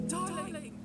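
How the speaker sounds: small, high cry after a panic; anguished call. Acted. Calling to unresponsive loved one.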